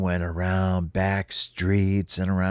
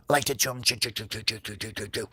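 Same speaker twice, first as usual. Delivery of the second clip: rapid repeated chewing patter, fading softer; munching imitation; 7 dB quieter, much faster than usual. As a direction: chatter the chews like tiny teeth, trailing off. Homie mimics munching onions.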